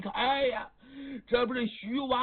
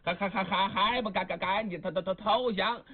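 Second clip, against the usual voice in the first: stammering shout. Acted. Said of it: "一边碰一边喊".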